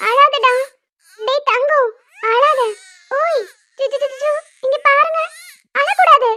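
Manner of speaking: anxious, sing-song hushing; soothing baby talk. Acted. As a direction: coax the baby to stop crying.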